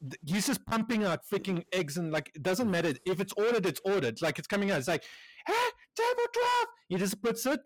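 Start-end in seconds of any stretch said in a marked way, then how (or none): 5.4-6.7 high, strained kitchen call; mock yell of an order across the kitchen; imitated irate cook.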